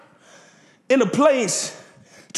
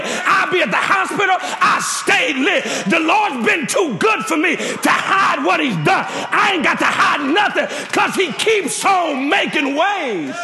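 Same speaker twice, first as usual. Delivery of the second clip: preaching at full force; 3 semitones higher than usual. Acted. Pastor leading the church in a shout of praise, preaching at full force. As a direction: stretch the praise line out like a hallelujah.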